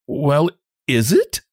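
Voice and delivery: slow, mildly cold challenge. A narrator's reading. Young woman looking at him steadily, coldly. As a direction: ask it steadily and coolly, drawn out.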